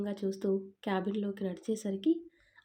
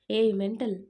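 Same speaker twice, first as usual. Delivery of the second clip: louder, exasperated rebuke at his wife; irritated snap; 6 dB louder than usual. Acted. Husband scolding his nagging wife, a louder irritated rebuke. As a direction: scold her sharply, fed up.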